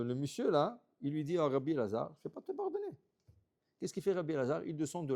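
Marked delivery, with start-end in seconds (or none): 2.2-3.0 high, put-on voice of a stubborn man refusing; stubborn refusal. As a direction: refuse him flatly in a squeaky mock voice. Man refuses the rabbi's apology.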